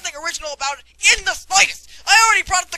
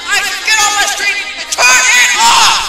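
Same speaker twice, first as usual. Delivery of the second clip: raging gamer; 9 dB louder than usual. Acted. Gamer threatens and yells.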